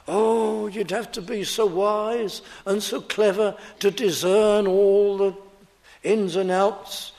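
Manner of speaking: lightly mock the complaint with a stretched "Oh"; mock objection. Mimics an objection to simple teaching.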